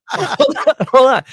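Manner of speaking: breaking up laughing, high and loud; can't get the words out for laughing; real laughter spilling over the words. Real, not acted. Cracks up mid-story.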